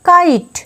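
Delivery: কাইট as kite, teacher's model; model word said clearly. Shown as a demonstration. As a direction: stretch the ai in কাইট for the class. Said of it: "আয়ের উচ্চারণ আই".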